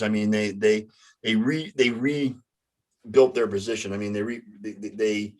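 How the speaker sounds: stuck repeating words; stammer, restart each phrase; stuttering. Real, not acted. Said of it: "God, I'm stuttering bad tonight".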